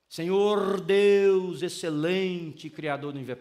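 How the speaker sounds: drawn-out, very slow fake grand prayer; lightly hammed-up formal prayer voice; mock pompous prayer. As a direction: overdo the churchy solemnity. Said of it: "Para com isso".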